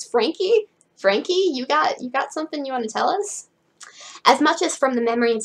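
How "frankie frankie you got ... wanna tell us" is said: teasing, high sing-song, like catching someone out; mock teasing. Real, not acted. Reader teasing Frankie over the word choice, in a mock teasing voice. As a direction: tease her as if she's hiding a secret.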